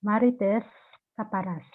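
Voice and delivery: name said slowly, word by word; slow, separated. Real, not acted. Repeating their name for the teacher, slowly and separately. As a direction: say each name on its own, with a pause between. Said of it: "Can you say again slowly?".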